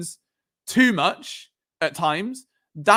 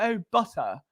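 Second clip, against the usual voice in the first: imitating posh speakers saying butter; lightly put-on posh British accent; a hint of posh English; 3 semitones higher, 4 dB quieter than usual. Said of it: "you've got posh people that'll be like".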